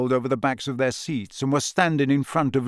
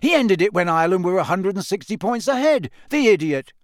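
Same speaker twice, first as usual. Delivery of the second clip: exasperated, raised-pitch bellow; 5 semitones higher, 3 dB louder than usual. A narrator's reading. Ron ranting about the match's end, bellowing. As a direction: bellow in disbelief at a foolish play. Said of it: "Ron bellowed".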